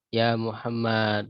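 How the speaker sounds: vocative spoken slowly and clearly; slow demo. Shown as a demonstration. Teacher slowly modelling the call for students. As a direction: say "Ya Muhammad" slowly, each syllable clear. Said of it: "contohnya ya".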